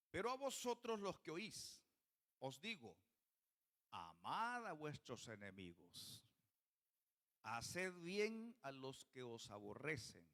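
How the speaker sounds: slow, measured Bible reading, falling low; scripture reading. Real, not acted. Preacher reads Jesus' words to the congregation, slow scripture reading. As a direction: read the verse out solemnly, drawing out the commands.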